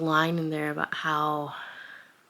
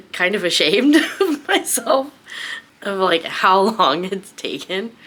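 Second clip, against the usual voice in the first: laughing embarrassed, pitched up and louder; 4 semitones higher, 8 dB louder than usual. Real, not acted. Vlogger laughing at herself for taking so long to read. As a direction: laugh through the admission of being slow. Laughing at own slow reading.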